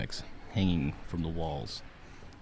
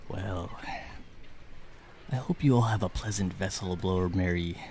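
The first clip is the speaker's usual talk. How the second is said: put-on Irish accent. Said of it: "barks orders in his Irish-like accent".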